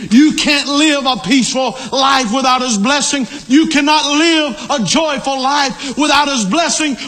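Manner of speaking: insistent pulpit refrain, climbing in pitch; fervent preaching. Real, not acted. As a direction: hammer each repeated phrase home, building as you go. Preaches with rising fervour.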